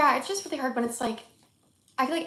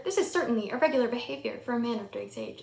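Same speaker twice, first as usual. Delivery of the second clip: newscaster voice. Retold or imitated. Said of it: "He says it like a newscaster".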